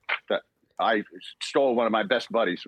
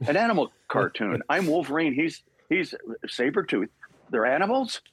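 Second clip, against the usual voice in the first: incredulous; 6 semitones higher than usual. Real, not acted. Disbelief at the Sabretooth casting.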